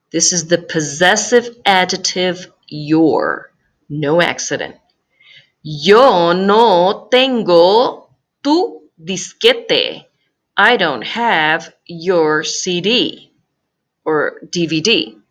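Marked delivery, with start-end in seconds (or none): 5.6-10.0 slow model sentence. Shown as a demonstration. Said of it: "model sentence".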